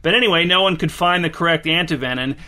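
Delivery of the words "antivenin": "antivenom" as an-tee-VEN-in; pedantic pronunciation. Real, not acted. Host resumes the snakebite tale, "antivenom" said with a final N. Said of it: "with an N because that's correct".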